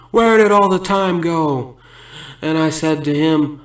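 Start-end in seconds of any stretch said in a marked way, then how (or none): 0.1-1.8 slow, louder mock yell of a distraught chef. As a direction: call it out slowly like a frantic cook. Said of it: "he yelled out".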